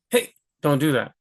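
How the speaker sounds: "Hey" punched short from a tensed gut; sharp warning hey. Shown as a demonstration. Teacher acting out stopping someone with "Hey". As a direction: warn someone off with a quick "Hey". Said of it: "you can feel it in your gut".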